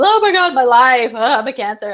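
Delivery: imitating a theatrical friend; a hammed-up sigh over her own life; friend's dramatic moan. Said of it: "she says that in both videos".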